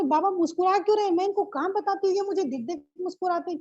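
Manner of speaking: playful complaint. Retold or imitated. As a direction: tease Baba fast and bright. (तेज़, ऊँची आवाज़ में प्यार भरी शिकायत)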